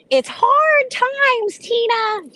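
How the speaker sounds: put-on very high, slow old-lady voice; high grandmother voice. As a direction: squeak it slowly like grandma. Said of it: "grandmother had a really high voice like this".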